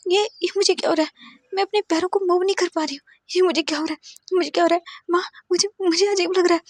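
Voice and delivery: high, frightened stammering; rising panic, cannot move; girl frightened to her mother; panicked. A narrator's reading. Can't move legs, panicking.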